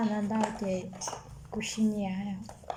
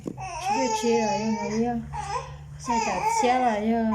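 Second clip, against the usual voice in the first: crying. Real, not acted. Child crying while talking to her mother. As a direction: sob the words out.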